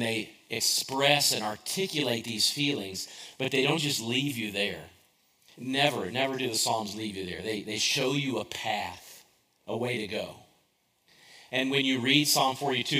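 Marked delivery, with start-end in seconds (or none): 5.6-7.4 NEVER repeated for emphasis; stress on never. Shown as a demonstration. Pastor assuring listeners, stress on never. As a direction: lean on the doubled never. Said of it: "repeated emphatic never".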